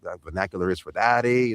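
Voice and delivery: East LA vernacular with a tag "eh"; East LA accent. Shown as a demonstration. Voice actor showing they know the vernacular, East LA accent. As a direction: finish it off in East LA homie style. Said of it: "from East L A".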